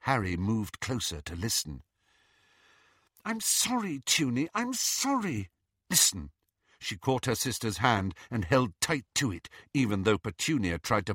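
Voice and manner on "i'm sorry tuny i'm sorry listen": high, urgent apology; pleading. A narrator's reading. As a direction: plead with a sister in a raised voice. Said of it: "seemed to be pleading with her sister".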